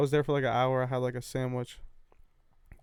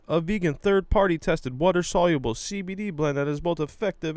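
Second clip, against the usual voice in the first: podcast ad read; 4 dB louder than usual. Pretend. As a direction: sell the sponsors like a radio host.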